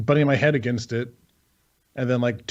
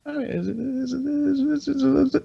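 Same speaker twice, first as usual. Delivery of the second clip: flustered stammer; 11 semitones higher, slower than usual. Real, not acted. Asked if she's hot.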